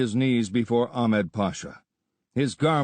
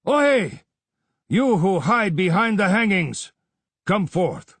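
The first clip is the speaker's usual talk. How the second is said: much higher, loud challenge; calling out; 9 semitones higher, 5 dB louder than usual. A narrator's reading. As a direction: call out to the hidden listener. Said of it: "Ahmed Pasha called".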